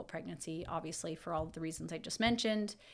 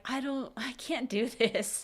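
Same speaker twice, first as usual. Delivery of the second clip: retold crying; 5 semitones higher, slower than usual. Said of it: "and I started crying".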